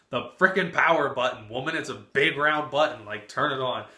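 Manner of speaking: loud, exasperated shout at his mother; exasperated yell. Retold or imitated. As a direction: snap back at her, fed up and loud. Exasperated retort to mother on phone.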